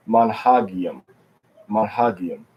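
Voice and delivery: "manhagium" sounded out as mahn-HAHG-ee-um; deliberate, stressed HAG in "manhagium"; Hebrew plural pronunciation. Shown as a demonstration. Teacher giving the class the Hebrew plural, careful pronunciation. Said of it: "in the plural, we would say".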